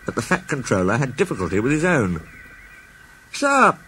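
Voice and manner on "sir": ventured. Acted. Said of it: "ventured Gordon at last".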